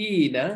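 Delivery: long ee in "ইনা"; pronounced "ইনা". Shown as a demonstration. Teacher showing the second plural form, pronouncing "ইনা" with long ee. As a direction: sound out "ইনা" as ee-na. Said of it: "উচ্চারণ হলো".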